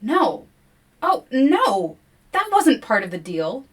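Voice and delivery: loud, high shocked no; alarmed dismay. Real, not acted. Player realizing the forest wants William, loud shock. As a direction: recoil at the bad bargain.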